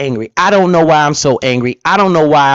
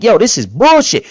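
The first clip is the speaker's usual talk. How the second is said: retold outrage, higher pitch; pissed off; 6 semitones higher than usual. Man recalling his reaction to his portfolio, pissed off. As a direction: replay getting instantly pissed. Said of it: "then instantly I just got pissed".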